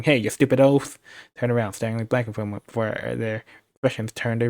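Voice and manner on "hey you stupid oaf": mild shout. Acted.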